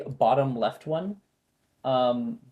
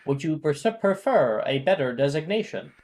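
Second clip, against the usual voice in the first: higher pitched voice; 4 semitones higher, 5 dB louder than usual. Acted. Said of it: "I'll make a higher pitched voice for it".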